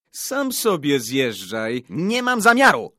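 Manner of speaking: loud comeback climbing to a high pitch; defiant retort. A narrator's reading. Boys shoving, shouting back. (zadziorna, głośna odpowiedź)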